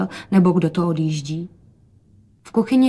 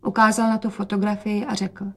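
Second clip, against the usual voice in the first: ordinary delivery, nothing marked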